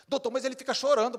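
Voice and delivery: high, loud, fast whining plea; whiny mother. Retold or imitated. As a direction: whine in protest as the mother. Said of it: "mother pleading again".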